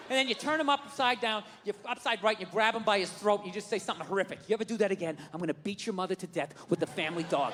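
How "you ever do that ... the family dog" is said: low, hushed threat; acted quiet menace, well below usual pitch; low menacing threat.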